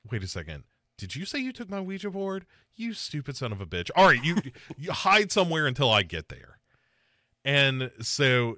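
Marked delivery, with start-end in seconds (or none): 0.1-6.6 lightly voiced father, held down in volume; retold angry father. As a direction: scold your kid in a hushed retelling. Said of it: "and his father is like".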